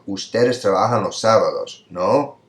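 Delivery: "Ustedes trabajan los sábados", slight pause, "no" going up; tag question. Shown as a demonstration. Teacher modelling a tag question, pause then rise. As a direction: lift the final "no" to check. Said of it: "So that would sound like".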